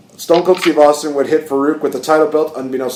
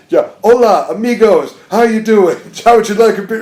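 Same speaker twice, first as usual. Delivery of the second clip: mock friendly Spanish greeting; 6 semitones higher, 3 dB louder than usual. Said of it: "some deal where he's like".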